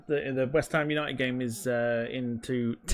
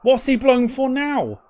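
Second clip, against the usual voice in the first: much higher, louder, slow outrage; outraged shout; 10 semitones higher, 6 dB louder, slower than usual. Real, not acted. Fan furious at the referee's whistle, outraged shout. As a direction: yell at the referee in disbelief.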